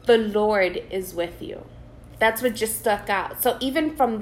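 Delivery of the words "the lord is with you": excited reading. Real, not acted. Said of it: "how excited you're getting at reading that".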